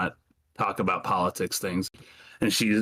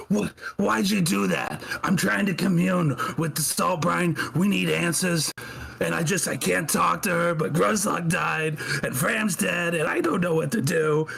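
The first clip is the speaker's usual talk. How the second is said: higher, upset, pleading voice; grieving and lost, voice pitched up; distraught old woman; 8 semitones higher than usual. Acted. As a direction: Marge lamenting dead companions to Ruin, high and upset. Marge pulled out, distraught.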